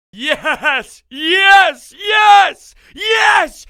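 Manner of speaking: loud, high celebratory yells; triumphant shouting. Real, not acted. Fan celebrating the eighth-inning comeback, triumphant shout. Celebrating the win as show opens.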